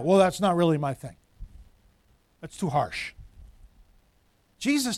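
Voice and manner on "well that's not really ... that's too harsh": Joel Osteen. Acted. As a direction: lower voice, softening to a murmur. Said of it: "Joel Osteen".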